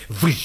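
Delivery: imitated whoosh of wind; howling wind. Storyteller imitates the polar wind, drawn-out whoosh. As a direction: make the wind whistle past. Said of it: "Căci vântul bătea vâj".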